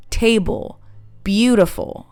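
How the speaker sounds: TAY-ble, BEAU-tiful, first syllable stretched; English stress-timed "table, beautiful"; long stressed syllables. Shown as a demonstration. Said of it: "stress syllables are longer".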